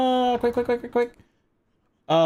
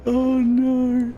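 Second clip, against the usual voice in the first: panicked oh no; 12 semitones higher, much slower than usual. Real, not acted. Streamer squealing as the character nearly dies. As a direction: squeal half laughing in panic.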